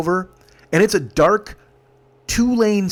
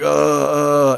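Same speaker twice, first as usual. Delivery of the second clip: long drawn-out groan of nausea; imitated moan; 4 dB louder than usual. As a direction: moan as if about to be sick. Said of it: "he's, like, moaning".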